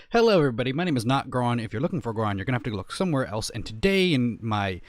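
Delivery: lively channel intro read; intro host voice. Shown as a demonstration. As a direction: run through the whole intro like a host. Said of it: "basically it goes".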